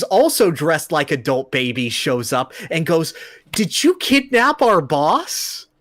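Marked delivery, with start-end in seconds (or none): 3.5-5.7 slow, high-pitched accusing henchman; mock accusation. Henchman confronts the hero over his boss, mock accusing. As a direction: draw out the indignant question, pitched up.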